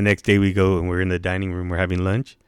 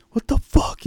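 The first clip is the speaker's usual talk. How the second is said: mock whispered exclamation; slower than usual. Retelling Max's reaction, unvoiced.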